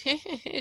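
put-on short, high old-woman cackle; a quick creepy crone giggle; a mocking hag titter. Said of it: "She goes".

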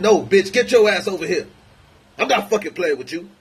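high, loud mock yell; mad yell. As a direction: bark it like a raging husband. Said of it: "When he mad".

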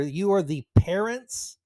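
PARENTS punched at the end; emphatic. Real, not acted. Host interjecting to scold the parents, emphatic. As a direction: lean on PARENTS to drive it home. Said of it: "I keep emphasizing that word".

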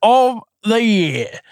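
put-on reads the reviews in a light, held Essex accent; a mild Essex accent kept up through the reading. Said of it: "I can't keep doing the accent".

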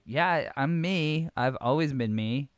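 hammed-up Valley Girl protest. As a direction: put on a Valley Girl lilt, stretching the vowels. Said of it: "decided to go Valley Girl".

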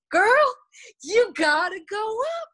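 high, loud playful coach voice; coach's teasing call. Retold or imitated. Coach teasing the scared athlete, loud and high.

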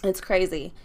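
words around a coffee sip; talking between sips of coffee; while sipping a drink. Real, not acted. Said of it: "I'm trying to drink my coffee".

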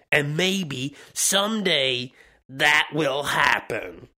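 slow, lightly voiced tweet reading in character; Donald Trump. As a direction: read the tweet slowly, as a mock impression. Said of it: "Donald Trump's tweet was".

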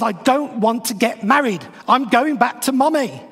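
a hammed-up sulky tantrum; mock angry outburst. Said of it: "is so angry now".

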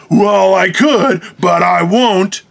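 smug drawl. Retold or imitated. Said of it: "somebody who points out goes".

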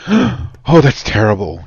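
gasp, then play offended; imitating someone going off in a huff; imitated offended huff. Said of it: "went off in a huff".

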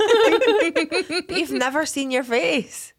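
drawn out and cracking up; laughing repeat. Real, not acted. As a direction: insist on it through laughter.

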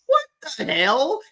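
loud, high incredulous outburst, the last one dragged out; exasperated disbelief. Acted. Host reacting to men cowed by girlfriends, exasperated disbelief. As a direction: react appalled, stretching the final words upward.

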